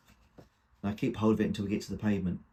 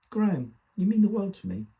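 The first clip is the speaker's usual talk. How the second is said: high, emphatic mother's voice, louder on the declaration; mother's fond declaration; 10 semitones higher, 5 dB louder than usual. Acted. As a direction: voice a mother's affection, pitched well up. Mother's declaration, quoted by son.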